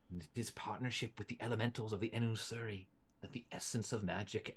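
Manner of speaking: a salesman's pitch, trailing into a hush; merchant NPC. Acted. NPC merchant explains the Muta.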